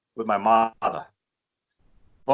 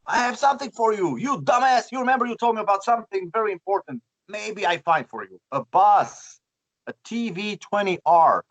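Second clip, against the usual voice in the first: much higher, fast, teasing excitement; excited friend; 8 semitones higher than usual. Retold or imitated. Friend telling Rudy he found the bus, high, excited teasing. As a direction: tease him with big news, pitched up. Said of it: "And he said".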